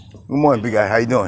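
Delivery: loud, cheerful greeting called across the street; calling out hello. Real, not acted. Vlogger on a morning walk greets a passerby, calling out loud. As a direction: hail a passing neighbour brightly.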